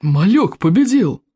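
slow, drawn-out cheering shout; shouting crowd. Acted. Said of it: "орали викинги".

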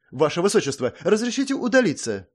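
high, near-tearful plea to leave; a maid holding back panic; slight hysteria. A narrator's reading. Maid begging the princess to leave, slightly hysterical. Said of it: "с лёгкой истерикой в голосе Сонг".

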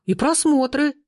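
high-pitched, excited marvelling; thrilled teenager. A narrator's reading. Teenager filming the row, excitedly marvelling. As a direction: pitch it up in gleeful amazement. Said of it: "восхитился подросток".

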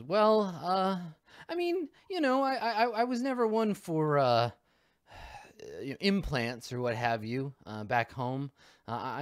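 she picks her words carefully; hesitant suburban mom. Acted. GM voices mom NPC, hesitant.

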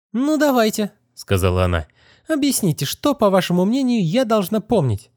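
put-on defiant girl. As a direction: dare him to go on. Narrator voices defiant Kitty.

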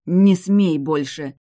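every word a warning; furious warning. A narrator's reading. Bride furiously forbidding the hero to touch her. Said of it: "злобно сверкая глазами".

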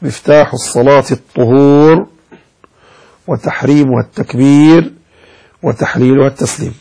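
measured hadith recitation; formal recitation of a hadith; reciting hadith. Acted. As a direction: quote the Prophet solemnly and evenly. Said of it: "قال رسول الله".

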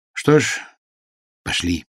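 mild sadness, softening at the end; sad. A narrator's reading. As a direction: give up, a touch downcast. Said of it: "грустно сказал Акридж".

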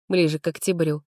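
ordinary delivery

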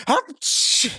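high sneeze; a sharp high sneeze. Acted. Nisse sneezes before addressing the chief. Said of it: "чихнув".

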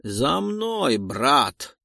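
calling out to a partner; shouting. Acted. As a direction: call him to follow. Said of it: "кричит Айдару".

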